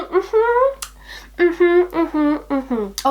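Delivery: high mm-hmms stepping gradually down; hammed-up agreement. Playing on after the American phrase, hammed-up agreement.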